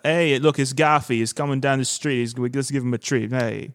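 a hint of a Boston accent; light Boston street voice. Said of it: "with the Boston accent".

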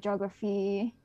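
ordinary talk, nothing marked

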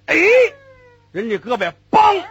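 usual speaking voice

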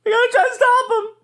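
pleading. Acted. Desperate plea after losses.

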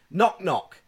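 high, loud insistent call; retold child's shout. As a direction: imitate a kid who won't give up. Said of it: "So she shouts".

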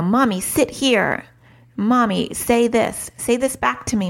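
insistent preschooler voice, drawn out; demanding toddler. Retold or imitated. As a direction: play a toddler giving orders to mom. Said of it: "when your child is like".

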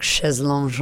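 put-on chaise lounge in a light French accent. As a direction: say it the posh French way. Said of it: "it only sounds posh 'cause you do it in a French accent".

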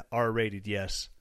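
ordinary talk, nothing marked

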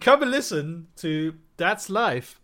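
slow, drawn-out radio ad read; advert voice. Pretend. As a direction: sell it like a mock radio ad. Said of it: "we just did an impromptu advert".

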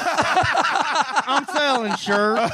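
very slow winding-down toy voice; pull string toy. Pretend. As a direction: drag it like a dying battery. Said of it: "I was repeating".

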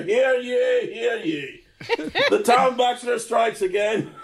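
booming hear ye proclamation; town crier. Pretend. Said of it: "It sounds like they've got a town crier".

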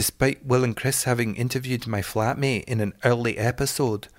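patchy put-on Scottish accent; rough imitation of a Scot. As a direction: read it out in an amateur Scottish accent. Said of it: "should I do it in a Scottish accent?".

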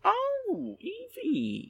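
very high-pitched coo; drawn-out, high "aww" tone; fond cooing. Real, not acted. Reacts to mention of Evie.

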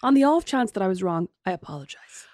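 a fake humble apology; mock apology. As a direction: say it grandly then let the apology fade. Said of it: "I'm gonna say that from now on".

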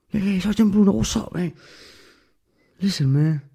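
breezy greeting. Retold or imitated. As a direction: hail the sergeant with breezy confidence. Calling out to sergeant.

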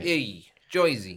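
Jersey accent. Shown as a demonstration. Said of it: "what's a Jersey accent again".

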